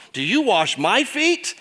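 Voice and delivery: a touch of Peter's indignant protest; protesting question. Retold or imitated. Preacher voicing Peter's protest, mock indignant. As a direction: push back, half incredulous. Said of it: "more of a protest than a legitimate question".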